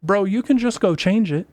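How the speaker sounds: fast, high, worked-up rant; rising heat, calling out the complainers. Real, not acted. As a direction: get fired up about the reviewers. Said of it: "I'm getting a little heated about it".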